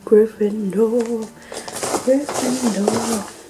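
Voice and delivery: slow, savoured Gryffindor, each syllable stretched; slow proud repeat of Gryffindor; drawn out. Acted. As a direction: linger over the word Gryffindor slowly. Drawn-out repeat of house name.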